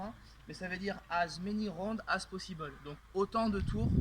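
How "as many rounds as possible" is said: English phrase with a French accent. Real, not acted. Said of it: "excusez-moi pour mon accent".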